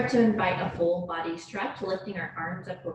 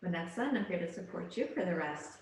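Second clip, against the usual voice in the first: calm, measured yoga-teacher voice; unhurried relaxation-class delivery; guided yoga meditation. Real, not acted. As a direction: guide them gently into their breath, leaving space between phrases. Leads yoga breathing meditation.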